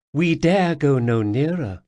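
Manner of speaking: put-on lightly accented Khajiit warning; a cat-folk scout, wary; wary Khajiit guide turning back. Khajiit character voice.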